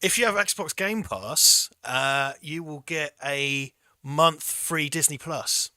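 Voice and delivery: slow, deliberate money-tips presenter voice; a hint of a consumer-advice presenter; Martin Lewis impression. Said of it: "I'm gonna do a Martin Lewis".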